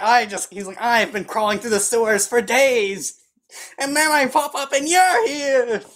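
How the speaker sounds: high, slowing, squeaky rant; frantic gnome voice. Acted. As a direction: babble like a filthy gnome.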